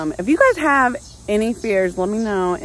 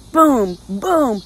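imitated thud; 3 semitones higher, 5 dB louder than usual. Imitating bird hitting window.

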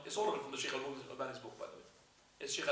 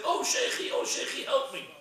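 drowning cry; 12 semitones higher, 8 dB louder than usual. Acted. Follower drowning, calls for help.

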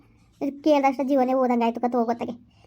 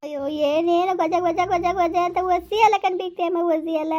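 higher-pitched wail of remembrance; grieving lament; 3 semitones higher than usual. Acted. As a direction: lament the lost baby's babbling. Grieving elder recalls lost baby's babble.

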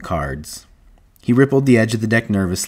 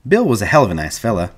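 higher-pitched, animated ranch hand; ranch hand reminiscing; 5 semitones higher than usual. Acted. Whit recalling his old workmate Bill, animated. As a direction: talk fondly like a lively ranch hand.

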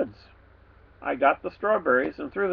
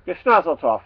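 pig grunt; 5 dB louder than usual. Acted. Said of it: "he grunted back".

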